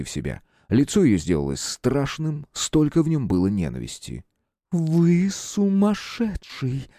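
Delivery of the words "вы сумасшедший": whispered. A narrator's reading. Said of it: "прошептала она".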